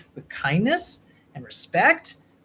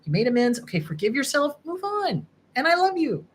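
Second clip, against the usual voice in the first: kind inner voice; 4 semitones higher than usual. Acted. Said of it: "tiny little voice going".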